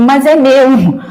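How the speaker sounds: drawn out, rising into emphatic volume; talking loud. Shown as a demonstration. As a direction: get carried away, stretching the words. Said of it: "eu me exalto, eu falo alto".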